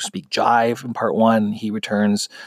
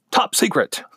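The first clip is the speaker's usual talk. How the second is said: high-pitched mock exclamation; hammed-up title announcement, falling at the end; exclamation-point delivery; 9 semitones higher than usual. Shown as a demonstration. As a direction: call out the title with an audible exclamation mark. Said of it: "supposed to say it like that".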